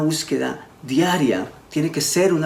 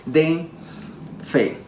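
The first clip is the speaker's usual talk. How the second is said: slow emphatic quote; much slower than usual. Retold or imitated. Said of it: "Entonces Pablo le dice".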